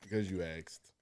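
whispered, sheepish justification; hushed. Real, not acted. Answering her for laughing at his reply, whispered. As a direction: whisper it softly, almost under your breath. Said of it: "Why you say it like that?".

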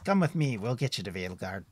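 a cheerful forest ranger chatting; friendly woodsman Tim. Acted. GM voices woodsman NPC.

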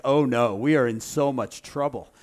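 loud mock alarm; mock panic. Brother facing Joseph, loud mock panic. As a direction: brother realizing they're in trouble. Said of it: "it's like".

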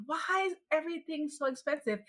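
high-pitched mock lament. Shopper retelling her Costco complaint, high-pitched lament. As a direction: whine it high, without raising the volume. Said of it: "I said out loud".

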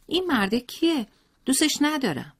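put-on high, sulky child voice with a hateful edge; spiteful little boy. A narrator's reading. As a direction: play a jealous young boy glaring at a stranger.

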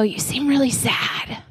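put-on slow, softened voice to a child; understated tender empathy. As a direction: say it slowly and gently, staying near. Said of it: "I need to be quiet".

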